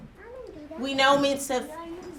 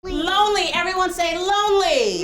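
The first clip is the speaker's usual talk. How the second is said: lively, higher call for a choral repeat; calling to class; 4 semitones higher, 3 dB louder than usual. Shown as a demonstration. Teacher has everyone say lonely, calling out. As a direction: lead the class in saying it.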